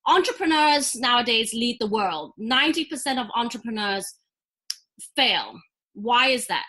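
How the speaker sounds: emphatic pitch opener, pausing before the punch word; attention-grabbing opener. Shown as a demonstration. Entrepreneur demonstrates a pitch opener to the host, attention-grabbing. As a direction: grab the listener with a bold opening line. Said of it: "an opener would be something like".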